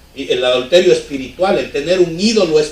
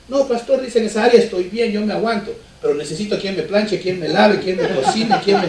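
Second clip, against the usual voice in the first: higher, laughing mock voice of a man after a maid; imitating the man; 4 semitones higher than usual. Pastor mimicking a churchgoer who wants a wife to do chores, amused higher voice. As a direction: play the naive churchgoer, amused.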